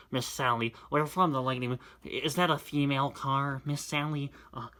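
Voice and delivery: lightly voiced nasal-ish fan; a hint of a strange fan; mildly put-on fan club voice; odd fan voice. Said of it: "what voice do you have?".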